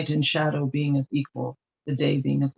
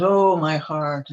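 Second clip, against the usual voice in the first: a slow, drawn-out groan of pain, a touch louder; mock moaning; 4 dB louder, much slower than usual. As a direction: ham up a suffering queen's sigh. Queen moaning over her pain.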